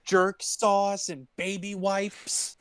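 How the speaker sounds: lightly put-on slow mocking voice; mock character voice. Friends riffing on a movie scene, lightly put-on sneering voice. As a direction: play a prickly character sneering at the question.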